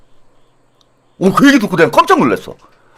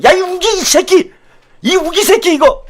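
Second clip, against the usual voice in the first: mock rough scolding; 9 semitones higher than usual. Voicing a rough scolding parent.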